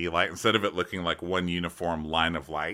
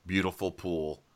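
imitating Jim; 4 dB louder than usual. Host mocking Jim admiring the pool, loud Midwestern voice. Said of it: "And he goes".

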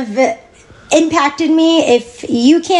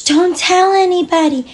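higher mocking voice; 6 semitones higher than usual. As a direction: mimic the people silencing her. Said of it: "everybody telling everybody that".

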